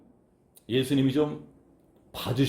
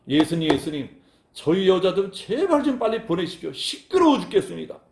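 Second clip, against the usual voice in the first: annoyed complaint; 4 semitones higher than usual. Acted. Annoyed disciples complain to Jesus.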